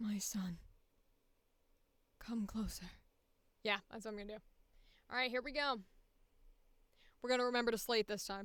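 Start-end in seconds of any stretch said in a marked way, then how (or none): 0.0-2.8 unhurried, hushed, low motherly tone. Previewing a planned line as a widowed mother: low mother voice. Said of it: "I think I'm gonna go low".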